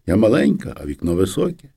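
ordinary delivery

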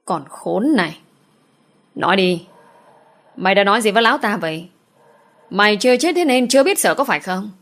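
teeth-gritted fury. Acted. Sao snarls through gritted teeth at the maid she's beating, furious. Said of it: "vừa nghiến răng nghiến lợi rồi nói".

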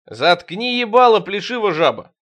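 loud rude comeback; rude retort. Acted. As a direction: shut them up hard. Rude retort, then narration.

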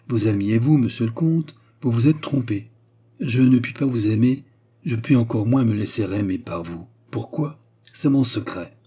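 lightly voiced woman, emphatic refusal; firm Baccarat. Baccarat refuses the count's love, firm. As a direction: let him down firmly, with lift.

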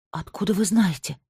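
ordinary delivery

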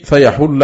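فيحل said fa-yahulla, u after the h; damma on ha. Shown as a demonstration. Teacher showing al-Kisa'i's reading, فيحل with damma on the ha. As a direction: say فيحل with an u vowel on the ح. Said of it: "بضم الحاء".

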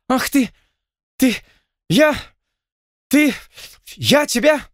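high, loud speechless fury; sputtering rage. Acted. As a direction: choke on the words in rage. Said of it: "От возмущения плантатор потерял дар речи". (захлёбывается от ярости)

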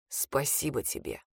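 barely able to speak; tired thanks. A narrator's reading. Exhausted Reed thanks her, very low and soft. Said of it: "раздался усталый голос Рида".

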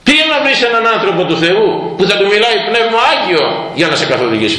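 high, insistent advice; urging elder. Retold or imitated. The elder urges the seeker to find a spiritual father, high and insistent. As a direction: send him off, voice lifted.

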